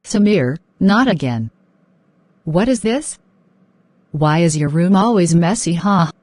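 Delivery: loud exasperated scolding of her son; mother shouting about the messy room; angry scolding. Acted.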